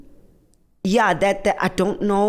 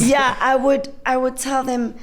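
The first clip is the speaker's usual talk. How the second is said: high laughing reply; giggling as she begins; 9 semitones higher than usual. Real, not acted. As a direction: laugh through the start. Laughing into answer.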